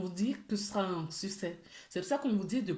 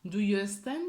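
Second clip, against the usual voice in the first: French-accented English. Real, not acted. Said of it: "J'ai un accent pourri".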